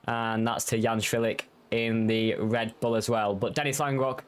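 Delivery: brisk live race call; motorsport commentator. Acted.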